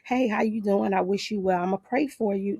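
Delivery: sweet, high Southern hello; lightly voiced Southern niceness; Southern girl greeting. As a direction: greet like a polite Southern lady. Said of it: "I'm a Southern girl in terms of".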